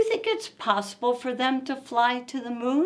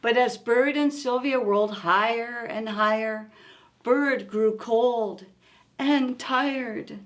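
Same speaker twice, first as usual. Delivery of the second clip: gentle read-aloud storytelling; story narration. A narrator's reading. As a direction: read it like a bedtime picture book. Reads picture book aloud.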